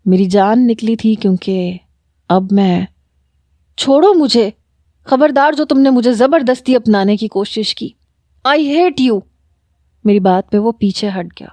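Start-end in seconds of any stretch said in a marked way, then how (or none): 3.8-9.2 high, desperate push-away; pleading fury; angry protest. Acted. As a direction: shove him off with your voice. She fights him off.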